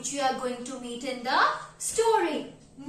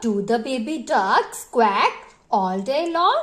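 cautioning queen; 3 semitones lower, 4 dB louder than usual. Acted. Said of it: "The queen cautioned Papa Duck".

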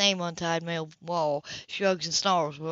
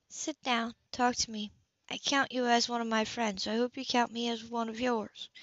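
gentle reassurance; 4 semitones higher, 5 dB quieter than usual. Acted. Anna gently reassures Grace.

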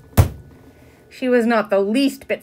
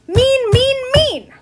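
high, loud rhythmic chant-yell; furious yell; 7 dB louder, slower than usual. A narrator's reading. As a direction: yell it in time to drumming heels. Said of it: "she yelled".

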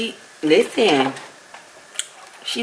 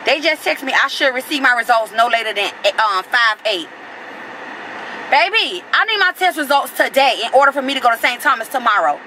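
pitched-up, exasperated venting; real anger; 4 semitones higher than usual. Real, not acted. Telling viewers the test results may be late, exasperated angry venting. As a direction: complain hotly, building. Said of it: "I'm so mad I can't even read right now".

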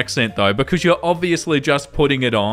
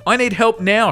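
higher-pitched mock nagging customer; nagging demand; 5 semitones higher than usual. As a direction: imitate a pushy customer nagging, voice lifted. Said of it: "starts nagging at this poor guy".

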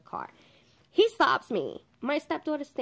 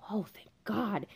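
whispered relief, breath only; relieved whisper; 4 dB quieter than usual. Retold or imitated. Relief realizing it's the plumber.

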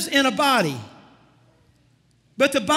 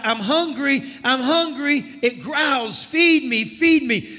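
spirit crying out. Acted. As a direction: plead it like a starving inner voice. Spirit man crying out hunger.

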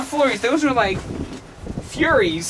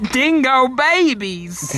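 drawn-out slow loud call; excited exclamation; 6 semitones higher, 4 dB louder, slower than usual. Real, not acted. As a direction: belt it out playfully. Joking exclamation, Australian friend.

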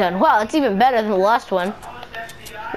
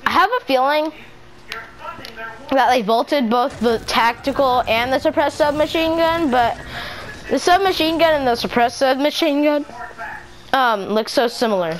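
speaking through hiccups; hiccuping; 3 semitones higher than usual. Real, not acted. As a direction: talk with hiccups breaking in. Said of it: "Sorry, my hiccups".

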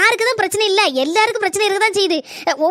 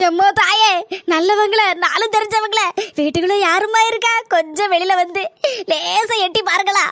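beggar-style call. Acted. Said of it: "எம்மா, எம்மான்னு கூப்பிடும்".

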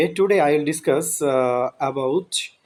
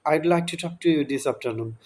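slow repeated model; much slower than usual. Shown as a demonstration. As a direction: repeat it slowly twice for practice. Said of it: "কি বললাম এইমাত্র আমি?". (ধীরে ধীরে আবার বলে দেখানো)

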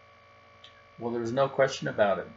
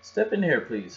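higher, louder cheery doctor; doctor's invitation; 5 semitones higher, 3 dB louder than usual. Acted. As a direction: usher the cubs in. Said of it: "said Doctor Grizzly".

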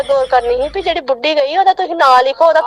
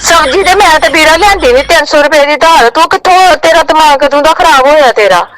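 angry scolding; 6 dB louder than usual. Real, not acted. Angry woman disputes prank debt call.

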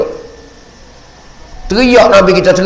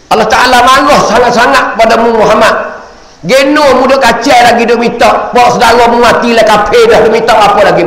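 stern angel rebuke; 5 semitones higher than usual. Acted. Jibril delivering God's anger.

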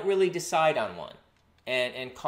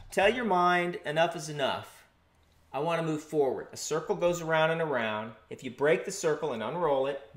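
announcer voice. Acted. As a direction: talk like a soothing art-show host. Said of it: "do I have to have an announcer voice".

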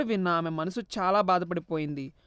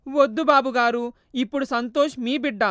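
tearful refusal; 4 semitones higher, 5 dB louder than usual. Acted. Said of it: "ఏడుస్తూ".

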